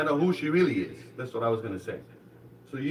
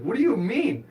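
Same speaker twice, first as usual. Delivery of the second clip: put-on higher, indignant child's question; retold upset disbelief; mock disbelief; 7 semitones higher than usual. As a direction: act out a kid protesting to mom. Upset child questions his mother.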